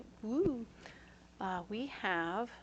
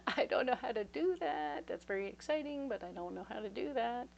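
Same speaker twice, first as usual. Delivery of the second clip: nervous reply; 2 semitones higher than usual. Retold or imitated. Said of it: "And I was like".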